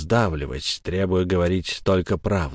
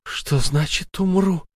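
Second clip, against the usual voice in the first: much higher, louder panic; hysterical scream; 10 semitones higher, 4 dB louder than usual. Acted. Sara screams hysterically, refusing to die. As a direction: lose control completely. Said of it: "в истерике закричала Сара".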